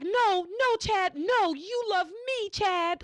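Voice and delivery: high, insistent mock cry; high pitched hammed-up desperate protest; mock yelling. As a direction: plead like she's losing him, hammed up. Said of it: "she's doing that, yelling".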